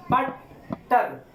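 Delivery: बटर very slow, a clear gap between बट and टर; syllables sounded out. Shown as a demonstration. Teacher showing the chin tapping the palm, बटर in two slow beats. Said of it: "जैसे मैं बोल रहा हूँ आपको".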